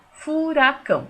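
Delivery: furacão in three slow beats, fu-ra-cão; syllable by syllable. Shown as a demonstration. Teacher counts mouth openings in furacão, syllable by syllable. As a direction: open the mouth afresh for each syllable of furacão. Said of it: "eu abro minha boca pra falar".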